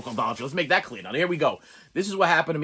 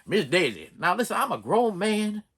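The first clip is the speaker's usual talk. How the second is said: a grown man putting his foot down, as Morgan Freeman; Morgan Freeman impression; 3 semitones higher than usual. YouTuber imitating Morgan Freeman arguing with Miss Daisy. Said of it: "my Morgan Freeman impression".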